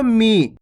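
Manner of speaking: मी with the i not dragged out; a brief i in मी; short vowel. Shown as a demonstration. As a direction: say मी without stretching it. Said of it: "खींच के नहीं करना दोस्तों".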